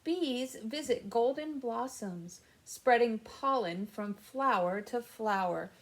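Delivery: gentle storybook reading; reading to children. Acted. Reads picture book to kids.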